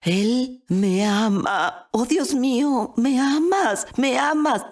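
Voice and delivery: high, overjoyed wonder; exalted. Retold or imitated. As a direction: marvel aloud at being loved.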